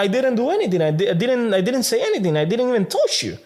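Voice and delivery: fast, high protest; rushed high-pitched defense; pleading innocence. Retold or imitated. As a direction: plead you did nothing, quickly. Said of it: "And I'm like".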